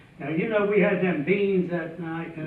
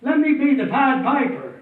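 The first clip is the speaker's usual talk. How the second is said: pleading yell; 4 semitones higher than usual. Retold or imitated. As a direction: holler at him to let you be the piper. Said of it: "I'm yelling at him".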